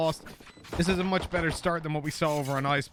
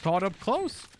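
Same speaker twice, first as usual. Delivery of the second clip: play-by-play. Acted. Live play-by-play call.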